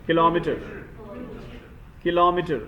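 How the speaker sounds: "किलोमीटर" as "ki-LO-mi-ter"; mitter, not meter. Shown as a demonstration. Teacher applying the same formula for students, correct pronunciation. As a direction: stress LO in "किलोमीटर", short "mi". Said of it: "मीटर नहीं बोलना है".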